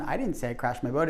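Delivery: "didn't" made the prominent word; emphasize "didn't", keep the rest light; stress on DIDN'T. Shown as a demonstration. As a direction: lean on "didn't" in the denial. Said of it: "In the first one".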